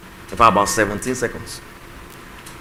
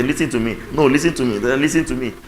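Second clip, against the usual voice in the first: insistent; 2 semitones higher than usual. Retold or imitated. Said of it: "I say".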